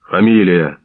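loud gruff bark of a guard; barked demand. A narrator's reading. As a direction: snap the name out like an order. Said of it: "гаркнув з віконця вусатий".

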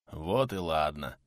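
low, slow soothing tone; fussing reassurance. A narrator's reading. Milovan fusses over his sick friend, reassuring. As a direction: soothe him, low and unhurried. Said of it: "засуетился Милован".

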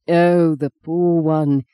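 slow, gentle pity for a poor soul; compassionate. Retold or imitated. Dane imitating an old priest, slow and compassionate. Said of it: "with such compassion in his voice".

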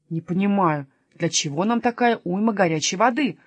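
mild grumble; grumbling. Acted. Kasper complaining about hauling hot water, mild grumble. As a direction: grumble it with little force. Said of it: "ворчал Каспер".

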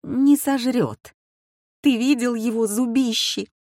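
she can't believe him, voice up in fear; wife doubting her husband's reassurance; scared disbelief. A narrator's reading. Frightened wife.

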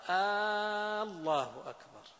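"آه الله" drawn out as a question, loud and high; questioning takbir. Shown as a demonstration. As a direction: ask "الله أكبر" as a questioning "آلله". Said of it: "هذا صار يستفهم".

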